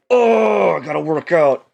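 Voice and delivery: high, loud mock-excited outburst; mock eager cry. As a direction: squeal it like a gym fan. Mock quote of gym lovers.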